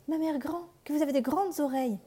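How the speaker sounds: put-on high, wondering little girl; astonished girl. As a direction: marvel like a curious child. La fillette s'étonne. (fillette étonnée, voix haute)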